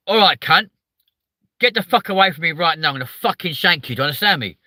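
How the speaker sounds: put-on aggressive southern accent. Streamer showing how southerners threaten, aggressive southern accent. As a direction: go on the attack in a southern English accent. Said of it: "it sounds even more aggressive".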